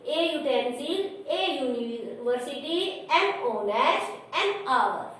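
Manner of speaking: slow, careful read of each article and word; slow teaching read. Shown as a demonstration. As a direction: read the examples slowly so the class can follow. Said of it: "आप देखिए". (धीमी और साफ़ पढ़ाई की आवाज़)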